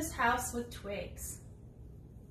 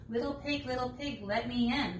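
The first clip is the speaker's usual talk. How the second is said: wolf voice; 2 semitones higher than usual. Acted. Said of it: "said the wolf".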